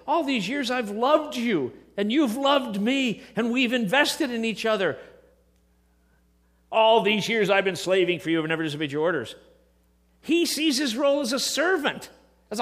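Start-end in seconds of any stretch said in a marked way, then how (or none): 0.1-5.0 loving version. Retold or imitated. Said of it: "It doesn't say". 6.7-9.4 louder, faster, the grudging servant's complaint; resentful older brother. Retold or imitated. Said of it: "It doesn't say".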